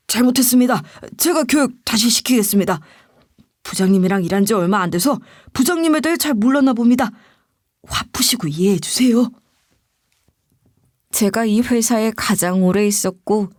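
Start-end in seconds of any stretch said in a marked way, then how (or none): 0.1-9.3 mildly servile apology; grovelling. Acted. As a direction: placate the boss with a touch of bowing and scraping. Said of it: "굽신거리면서 이러더라고요". (살짝 굽신거리는 말투)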